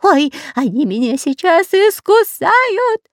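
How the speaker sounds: high, slow frightened whine; whining. A narrator's reading. Spy afraid of being bitten by snakes, whining. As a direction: whimper like a scared pup. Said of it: "громко скулил Дырка".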